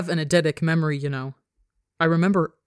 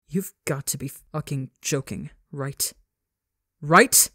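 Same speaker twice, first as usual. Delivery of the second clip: disbelieving yell. Acted. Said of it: "Ranbu yells".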